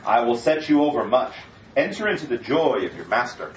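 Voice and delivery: measured, solemn Bible reading; sermon scripture read. Acted. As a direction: read the parable to the congregation. Reads scripture passage aloud.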